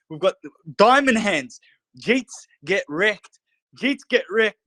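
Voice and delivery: hyped, driving pep talk to the community; rally the holders like a hype man; pumped up. Real, not acted. Host firing up his token community, pumped and excited. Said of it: "I get too pumped".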